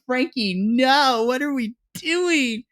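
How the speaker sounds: slow, high, pleading no; stretching out the disbelief. Retold or imitated. Begging Frankie to stop the feud, slow and high. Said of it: "I'm like".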